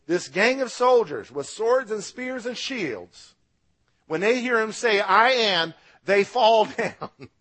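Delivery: excited. Real, not acted. Preacher marvelling to the congregation at the soldiers falling, excited and loud. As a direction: build it up as the soldiers fall.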